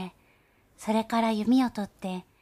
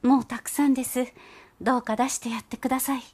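pleading, a little fast and higher; unable to bear it; 3 semitones higher, 4 dB louder, faster than usual. Acted. Mother mouse begs Gauche to let her child out, pleading. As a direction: beg him to stop, worried. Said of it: "こらえきれなくなった風で".

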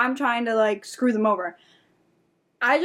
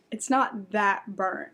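dismissive cook; 4 dB quieter, slower than usual. Retold or imitated. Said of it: "the guy who made it goes".

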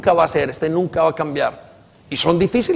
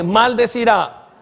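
a little louder, slow and drawn out; 4 semitones higher, slower than usual. Shown as a demonstration. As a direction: lean on it, deliberately. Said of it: "Más fuerte".

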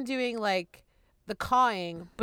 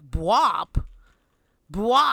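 1 questioning crow call; 6 dB louder than usual. Retold or imitated. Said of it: "And I'm like".

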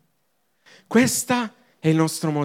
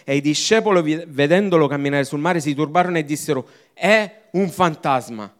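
Scripture reading; 4 dB louder than usual. Acted. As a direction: read the passage out with weight. Reads the Bible passage aloud. (lettura solenne della Bibbia)

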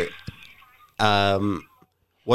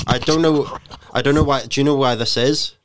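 feigned confusion; 4 semitones higher, 3 dB louder than usual. Pretend. Prank caller feigning confused customer.

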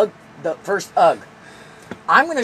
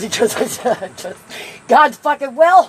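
mock preacher yell; 4 semitones higher, 6 dB louder, slower than usual. Mocking authority, loud.

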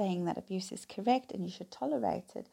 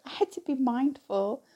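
laughing while talking, raised and louder; 4 semitones higher, 6 dB louder than usual. Real, not acted. Speaker looking back on a broken tailbone, laughing. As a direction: chuckle into the words, pitched up. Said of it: "I'm laughing now".

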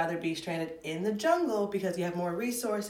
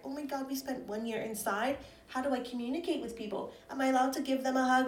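whiny mock voice; 6 semitones higher, faster than usual.

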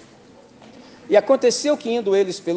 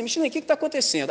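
confused listener; 9 semitones higher, much faster than usual. Retold or imitated. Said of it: "Aí você fala assim".

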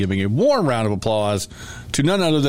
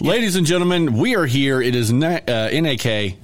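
showman intro, higher; announcer voice; 4 semitones higher than usual. Pretend. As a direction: announce it to the crowd.

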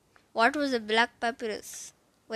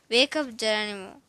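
bellowing; 5 dB louder than usual. Acted. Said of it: "a voice bellowed".

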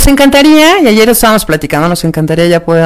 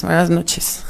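laughing; slower than usual. Real, not acted. Laughing at late greeting.

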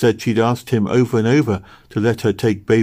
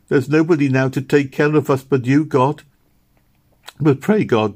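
higher and louder, tearful pleading; a girl begging God to spare her brother; earnest weeping prayer; desperate prayer; 6 semitones higher, 5 dB louder than usual. A narrator's reading. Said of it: "she cried".

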